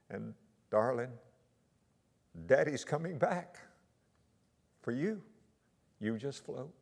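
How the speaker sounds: steady her without panic; calm reassurance. Retold or imitated. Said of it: "He tried not to panic her".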